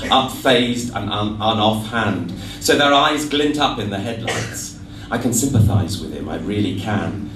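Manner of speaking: measured, rhythmic spoken verse; lilting recital with the refrain falling away at line ends; poem recital. Acted. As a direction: read it as a comic poem to a live audience. Recites poem about goats.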